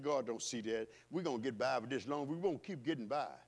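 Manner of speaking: wicked heart voice. Acted. Preacher voicing the wicked heart, low and smug. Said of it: "Satan, heart said".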